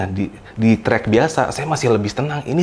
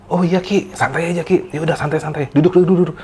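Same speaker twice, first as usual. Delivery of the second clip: reassuring; 5 semitones higher than usual. Retold or imitated. Soothing tired friend on trail.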